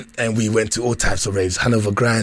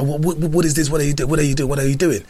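retold alarmed dad; 4 semitones higher, faster than usual. Dad confronting son, retold.

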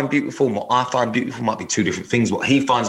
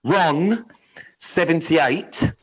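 sexy voice; slower than usual. Pretend. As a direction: read it slow and seductive. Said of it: "do it in sexy voice".

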